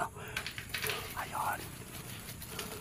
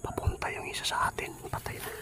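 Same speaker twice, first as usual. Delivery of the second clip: hushed whisper so nobody hears; whispering while hiding; 7 semitones higher, 4 dB quieter than usual. Real, not acted. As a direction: keep it to a breathy whisper. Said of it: "baka makita tayo".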